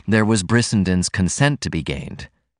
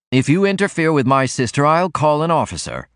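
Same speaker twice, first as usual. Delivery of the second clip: higher, raised threatening warning; 7 semitones higher than usual. A narrator's reading. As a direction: brother warns Martin off his sister, threatening. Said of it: "Norman threatened".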